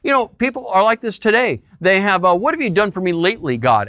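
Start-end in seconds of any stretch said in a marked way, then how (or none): 2.3-3.9 quick, demanding mock complaint to God; hammed-up ungrateful demand; entitled attitude. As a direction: toss it off like a spoiled customer.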